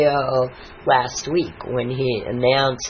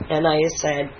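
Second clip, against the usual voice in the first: ordinary delivery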